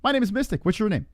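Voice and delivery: a cheesy late-night psychic taking calls; mystic hotline host. Acted.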